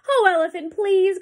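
birds cry out. Acted. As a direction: beg the elephant. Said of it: "cried the birds in the trees".

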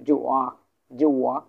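জোয়া sweeping upward from below; teacher's firm demo of rising জোয়া; low-to-high tone on জোয়া. Shown as a demonstration. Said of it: "নিচ থেকে উপরে".

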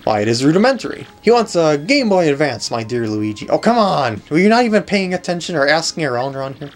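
lightly voiced self-important sleuth; pompous detective. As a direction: lecture like a grand detective, mildly exasperated. Voices Pennington, game character.

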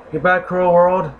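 high, hammy goodbye; mock dramatic farewell. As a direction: play it as a melodramatic exit. Mock farewell before death.

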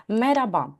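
"мераба" with no h sound; colloquial pronunciation. Shown as a demonstration. Teacher introducing the greeting to students, "мераба" with silent Х. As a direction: let the r run straight into the vowel in "мераба". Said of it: "але в розмовній мові".

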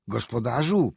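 loud, anxious call into the dark; fearful call. A narrator's reading. Doctor calling the lost driver, fearful and loud. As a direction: call out in alarm. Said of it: "zawołał z trwogą".

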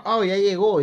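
mock chat voice. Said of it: "como dijeron".

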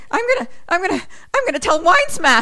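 very high, whiny comic wail; mock blubbering threat. Mickey threatens to tell on Robbie D, hammed-up wail. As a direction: stammer and wail in fake tears.

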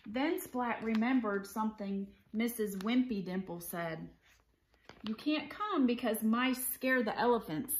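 animated picture-book read-aloud; story narration. A narrator's reading. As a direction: read it to children with clear, lively phrasing.

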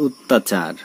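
অত্যাচার as "ot-tachar"; closed initial o. Shown as a demonstration. Teacher gives an example, অত্যাচার with closed o. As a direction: start অত্যাচার on a rounded o. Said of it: "হয়ে যাচ্ছে ও এর মতো".

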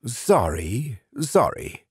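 high, quick double apology; sleep demon apology. A narrator's reading. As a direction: backpedal nervously in a high voice. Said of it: "Burgum said".

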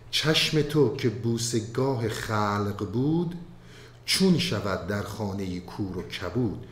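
slow, measured recital of classical verse; poem recitation. Acted. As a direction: chant the couplets slowly, with weight.

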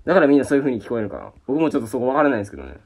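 ordinary delivery

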